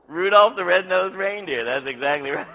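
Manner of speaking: loud, high, laughing delight; delighted confirmation. Real, not acted. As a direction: call out the answer, breaking into a laugh. Delighted at the audience's right answer.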